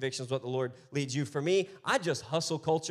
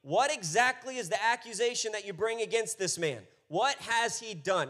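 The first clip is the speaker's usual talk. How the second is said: pointed Pilate; 5 semitones higher than usual. Acted. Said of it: "asked them pointedly".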